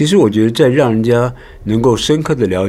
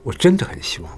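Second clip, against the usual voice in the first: 真 briefly accented, softer delivery; light tap on 真; 4 dB quieter than usual. Shown as a demonstration. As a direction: tap 真 softly without stretching it. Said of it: "就要让你自己去点".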